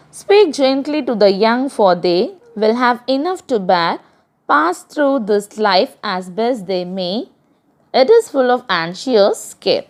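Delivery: measured reading of a verse for the class; poem recitation. Acted. Teacher reciting a poem to her class, measured. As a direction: read the stanza out like a teacher reciting.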